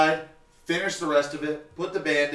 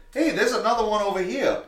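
imitating the customer; 7 semitones higher than usual.

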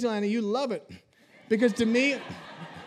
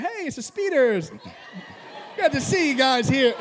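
fake cheerful greeting; 3 semitones higher than usual.

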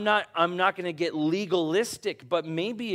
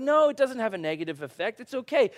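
mock dismissive; 6 semitones higher, 3 dB louder, faster than usual. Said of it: "and like".

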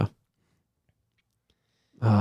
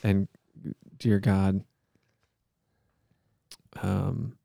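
measured, solemn monotone plea; earnest-sounding improvised prayer; mock prayer; 2 semitones lower, slower than usual. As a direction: pray aloud with halting mock sincerity.

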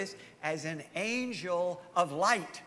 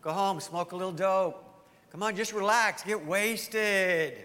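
tempting voice. Retold or imitated. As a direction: lightly coax him into a beer. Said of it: "and you hear this voice".

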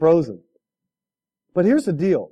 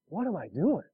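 self-questioning; 10 dB quieter than usual. Retold or imitated. Acts out his private moment of doubt.

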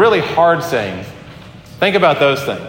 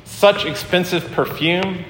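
mildly shocked, pitched up, slowing at the end; retold gasp of outrage; 4 semitones higher than usual. Storyteller voicing shocked onlookers at the wasted perfume, mildly aghast. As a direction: lightly voice the crowd's indignant gasp. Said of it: "everyone gasped".

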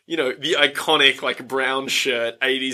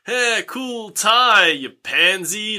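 lightly acted, slow, higher jeer; mock bully taunt; 6 semitones higher, much slower than usual. School bully to the new kid about his tie, lightly mocking taunt.

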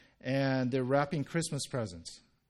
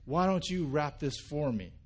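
frustrated yell. Retold or imitated. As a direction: snap out the challenge in retold frustration. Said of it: "Jim yells at him like".

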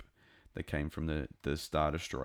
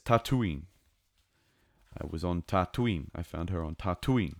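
lightly imitated Maori accent on Tatooine. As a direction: quote it with a Maori lilt, "TAH-tooine". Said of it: "very Maori".

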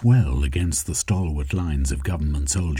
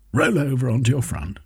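a touch higher and quicker, gloating threat; lightly voiced Jeremy, triumphant; 6 semitones higher than usual. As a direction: press the victory home, fast.

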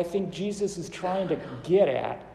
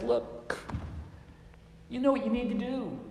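kind reassurance; 6 semitones higher, 6 dB quieter than usual. Retold or imitated. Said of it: "he very kindly says".

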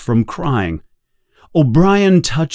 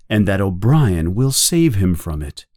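ordinary delivery, nothing marked

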